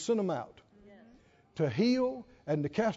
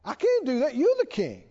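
higher-pitched, half-hearted crying act; pleading pitched up, only a touch of crying; mock tearful protest; 5 semitones higher than usual. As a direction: lightly imitate a tearful underling. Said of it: "he started crying and said".

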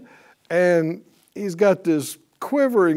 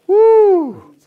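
jubilant shout; 7 semitones higher, 6 dB louder, slower than usual. Real, not acted. Preacher rejoicing at healing.

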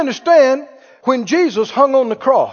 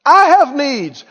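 selfish complaining; 4 semitones higher, 4 dB louder than usual. Retold or imitated. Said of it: "That's like an unsaved person talks".

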